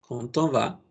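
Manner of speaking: quand on va with the t liaison kept; French liaison again. Shown as a demonstration. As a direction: quand on va, d sounding as t before on. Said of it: "la D fonéticamente se convierte en una T".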